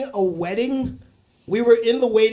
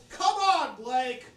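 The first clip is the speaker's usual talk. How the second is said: imitated yell; 3 semitones higher, 4 dB quieter, much slower than usual. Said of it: "And she yelled".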